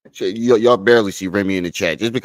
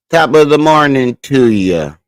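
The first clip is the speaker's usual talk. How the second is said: jaunty Irish greeting; 6 semitones higher, 7 dB louder, slower than usual. Acted. Playful greeting to chat.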